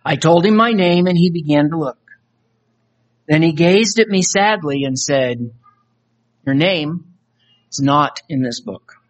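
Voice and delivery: earnest spoken-word poem read; recited poem, voices of soul and Jesus; dramatic poem recitation. Acted. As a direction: perform the poem like a testimony. Recites a poem about judgement.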